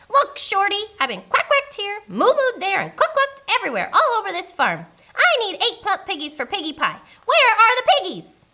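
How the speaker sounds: high, loud witch rant; fed-up, bossy witch tirade; exasperated witch. Acted. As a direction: vent your frustration at the farmer. Witch confronts the farmer.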